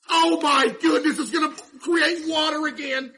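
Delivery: high, loud, laughing panic; flustered boss squealing at the flood; excited panic. Real, not acted. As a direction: yelp at the broken machine, half laughing. Broken machine flooding.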